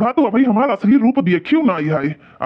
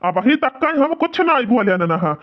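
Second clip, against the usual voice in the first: put-on raised, scornful rebuke of the old man; angry scolding; 4 semitones higher than usual. Son-in-law scolding his proud father-in-law, angry and scornful. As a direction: tell him off with contempt.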